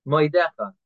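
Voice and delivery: Moidecha said clean, M straight into oi; no extra vowel before oidecha; correct Moidecha. Shown as a demonstration. Teacher giving the right Moidecha.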